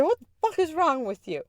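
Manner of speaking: high mock-incredulous demand; retold exasperated outburst; imitated freak-out. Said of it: "He is freaking out on me".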